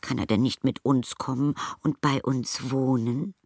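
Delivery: high, hopeful plea to take him home; high pleading question. A narrator's reading. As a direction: ask it high and eager. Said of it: "rief sie".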